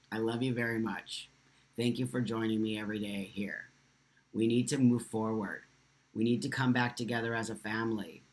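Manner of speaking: subdued, tender plea to the community; heartfelt appeal. Real, not acted. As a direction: drop your voice and plead sincerely. Heartfelt closing appeal to viewers.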